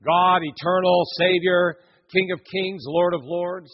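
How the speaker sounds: grand, measured intoning of titles; majestic prayer. Retold or imitated. Preacher imitating how some people pray, majestic. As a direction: proclaim each title with mock-solemn weight. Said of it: "heard some people pray like that".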